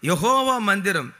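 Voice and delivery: loud. Real, not acted. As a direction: lift the voice to the congregation. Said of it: "స్వరమెత్తాలి".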